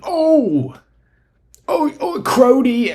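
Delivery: very high, hammed-up yelping; badly faked Canadian player's cry; Shai impression. Host imitating Shai on a drive, exaggerated high yelps. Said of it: "I can't do a Canadian accent".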